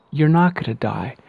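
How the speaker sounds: normal talking voice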